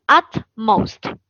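UTmost, first syllable stressed, second weaker. Shown as a demonstration. Teacher shows where the accent mark falls, first syllable of "utmost" stressed. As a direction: say "utmost" slowly with the weight on "ut". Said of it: "重音符号在前面…后面就是弱读".

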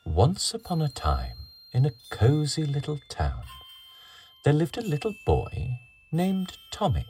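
gentle read-aloud storytelling; storybook narration. A narrator's reading. Reading story to children.

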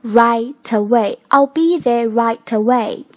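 "right away" joined as righ-taway; linked. Shown as a demonstration. Teacher showing the linked phrase in use. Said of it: "做连读".

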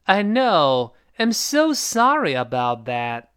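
slow apology, "so sorry" stressed; drawn-out, sorry delivery; apologetic model reading. Shown as a demonstration. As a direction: stretch "know" and "so sorry", sink on "about that". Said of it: "这两句话读成".

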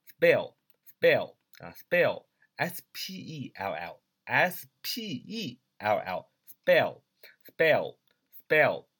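"spell" said slowly and punched loud, letters spaced out; slow, emphatic dictation of "spell"; slow model pronunciation. Shown as a demonstration. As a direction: teach "spell" word by word, slowly and clearly. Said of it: "这个单词叫spell".

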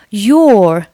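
"your" said in full, with its whole vowel; full form of your. Shown as a demonstration. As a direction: give "your" its strong, unreduced form. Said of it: "你不需要读作your tenant".

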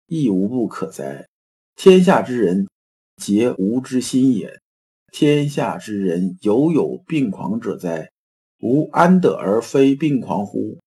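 put-on slow, measured reading of old Chinese; classical recitation. Teacher reciting Wang Yangming's words to the class, slow recitation. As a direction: intone the classical lines slowly.

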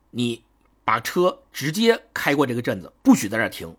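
measured, mildly stern command; stern order. Acted. Gunman orders the driver past the town, sternly. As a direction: give a firm order, pausing after the first word. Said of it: "他突然声音就变得非常的严厉".

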